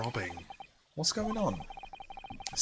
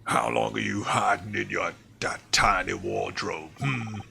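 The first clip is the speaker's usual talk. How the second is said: louder gruff guard mocking the suspect; 4 dB louder than usual. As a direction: bark at him, louder, with a mocking hmm. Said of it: "He had, like, a really gruff voice".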